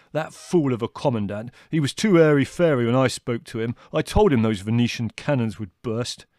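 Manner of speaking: a touch of exasperated anger; angry. A narrator's reading. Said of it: "said Leslie angrily".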